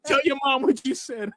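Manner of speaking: high-pitched imitation of a stern dad; a father scolding his son, in an imitated stern voice. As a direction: order the kid around in a mock dad voice. Father marches son to mom.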